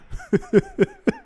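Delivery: high-pitched breaking laugh; amused laugh. Real, not acted. Streamer laughing at own remark about the show, amused laugh. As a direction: crack up in a high giggle.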